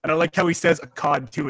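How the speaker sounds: ordinary talk, nothing marked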